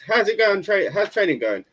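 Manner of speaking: high, cheery cartoon impression; high-pitched mock hero voice; Goku. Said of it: "Goku comes along, goes".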